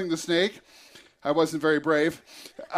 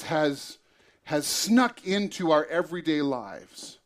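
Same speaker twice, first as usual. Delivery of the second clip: sermon. Acted. Preacher turns to the message.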